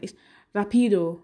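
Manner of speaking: put-on Spanish accent on one word. Shown as a demonstration. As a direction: try it like a Spanish speaker. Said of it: "let me try and do it in an accent".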